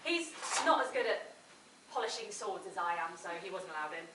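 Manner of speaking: ordinary talk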